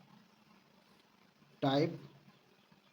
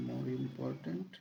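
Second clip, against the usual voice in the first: very slow dictation; 3 semitones lower, 7 dB quieter, much slower than usual. Shown as a demonstration. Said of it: "very slow repeat".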